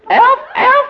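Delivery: high, loud elf squeak. Acted. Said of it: "Prove it, George".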